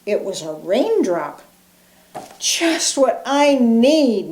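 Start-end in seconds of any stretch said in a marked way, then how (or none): 2.4-4.3 huffing. Acted. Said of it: "Mouse huffed".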